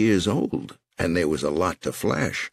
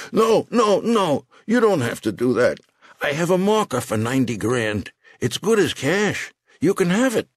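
put-on panicked old man; 10 semitones higher than usual. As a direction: beg fast before he's dropped.

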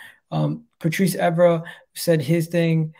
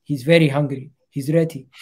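lightly put-on French accent; a hint of a French footballer's accent; Patrice Evra accent. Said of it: "That's my Patrice Evra, uh, accent".

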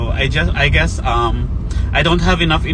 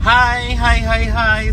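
jolted by a bumpy ride; greeting while bouncing in the car; on a bumpy road; 7 semitones higher, slower than usual. Real, not acted. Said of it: "the road is kinda bumpy".

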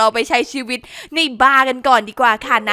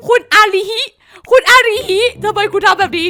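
high, loud cry of dismay at the character; shocked protest; 7 semitones higher, 5 dB louder than usual. Real, not acted. Streamer cries out to her dying Sim in shock. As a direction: wail the name in disbelief.

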